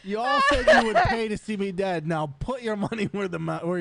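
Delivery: laughing through the words, high and loud; giggly sing-song taunt. Real, not acted. Joking about paying to see death.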